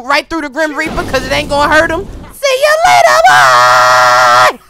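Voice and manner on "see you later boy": taunting shout. Real, not acted. Gamer shouting goodbye at the Grim Reaper, loud taunt. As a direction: yell it out as you fire.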